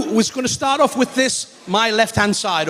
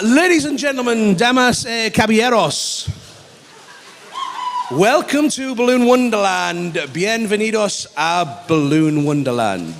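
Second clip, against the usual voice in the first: lucha libre announcer. Acted. Bilingual ring-style welcome to crowd.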